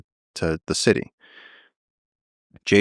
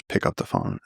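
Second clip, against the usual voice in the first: whispered, urgent "Pick up the phone."; a retold whisper, soft and urgent; 7 dB quieter than usual. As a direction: hiss it low and tense. Urgent phone call, quiet warning.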